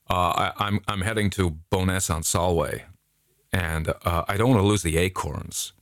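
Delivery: imitating an American tourist's accent. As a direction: put on an American accent for the quote. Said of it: "Okay, let's do the accents".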